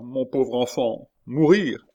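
drawn-out lament rising to a cry; anguished exclamation. A narrator's reading. Old father lamenting his doomed child, anguished cry. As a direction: lament slowly, then cry out high. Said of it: "s'écria le vieillard".

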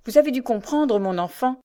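mildly fatherly address; a touch of paternal reassurance. A narrator's reading. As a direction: speak as a father to a child. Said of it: "fit-il d'un ton paternel".

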